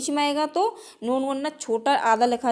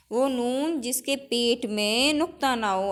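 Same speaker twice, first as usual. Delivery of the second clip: slower, each word spaced for copying; slow dictation. Shown as a demonstration. Teacher repeating the rule slowly for the class to note down. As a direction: dictate it slowly so students can write. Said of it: "teacher dictates the definition twice".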